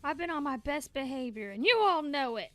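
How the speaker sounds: imitating Astarion. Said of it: "Where he's like".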